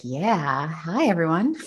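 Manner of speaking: playful seductive hello; sexy voice. Pretend. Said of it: "I need to put on my sexy voice too".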